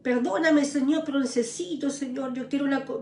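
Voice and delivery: softened, slowing plea, a touch of tears; retold tearful prayer. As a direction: murmur a broken prayer, half-retold. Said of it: "me arrodillé y le lloré al Señor".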